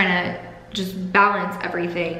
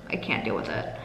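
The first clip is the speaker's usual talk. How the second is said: holding back tears; 10 semitones lower, 9 dB quieter, faster than usual. Real, not acted. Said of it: "I'm trying not to cry".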